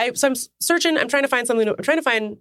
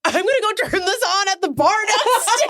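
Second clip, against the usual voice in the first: laughing delivery woman; 10 semitones higher than usual. Retold or imitated.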